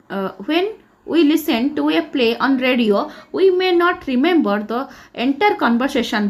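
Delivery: slow word-by-word reading of the example; careful classroom read-aloud. Acted. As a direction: read it out very slowly, like dictation. Reads English example slowly.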